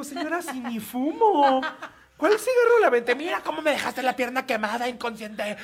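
high, loud indignant yelling through laughs; mock outraged shout. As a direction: shout back, laughing in disbelief. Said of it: "le digo".

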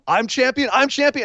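a hint of breathless joy; imitating Asuka. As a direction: repeat it over and over in disbelief. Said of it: "Asuka goes".

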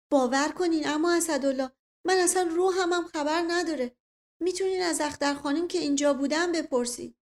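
mildly dramatized dialogue voice; protesting character. A narrator's reading. Voices character pleading innocence in dialogue.

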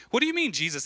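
high-pitched acted disbelief; incredulous challenge. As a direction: question it as if it makes no sense. Acted disbelief at Jesus' words.

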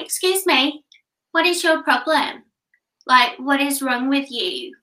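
a hint of a furious mother confronting; mock angry mum. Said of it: "storming towards me, she was like".

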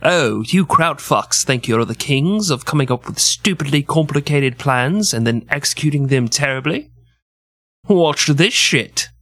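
put-on lightly done British accent, sneering; a cocky Brit daring the Germans. England mocking the Germans in a light British accent. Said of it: "do my British accent".

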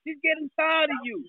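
muffled voice from a closed room. Real, not acted. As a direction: sounds muffled, like from a basement. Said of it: "That's why it sound muffled".

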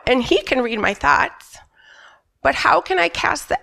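breathy whisper with no voice; voiceless whisper. Real, not acted. Sick mother with no voice, whispering her prayer. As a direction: whisper it, voice is gone. She had lost her voice.

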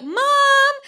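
high yelled call for mom. Retold or imitated. Kids calling their mother, a high yell.

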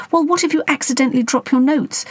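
sharp, high wifely retort; lightly voiced nagging wife. A narrator's reading. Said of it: "Mandy would retort".

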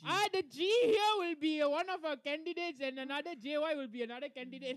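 put-on moderator in an Indian accent. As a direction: announce it with an Indian lilt. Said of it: "Why your Indian accent come out?".

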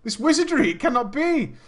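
hammed-up disbelief. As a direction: declare it in mock horror. Hammed-up disbelief at broken name.

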